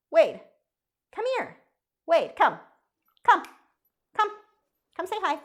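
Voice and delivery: high, sing-song call to the dogs. Real, not acted. Owner calling her dogs to come say hi, high coaxing call. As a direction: coax the lazy dogs to come over.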